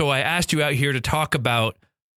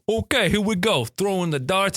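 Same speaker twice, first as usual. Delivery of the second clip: put-on New York accent; 4 semitones higher than usual. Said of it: "I have to put on my New York accent".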